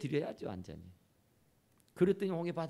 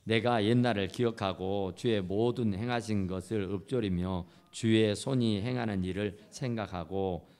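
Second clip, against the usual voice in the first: much lower, even reading of the verse; scripture reading; 10 semitones lower than usual. Shown as a demonstration. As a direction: read the psalm aloud with the congregation. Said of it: "오 절 한번 해볼까요? 시작".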